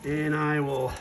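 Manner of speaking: talking through an N95 mask; muffled voice behind a face mask. Real, not acted. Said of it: "If I sound a little muffled".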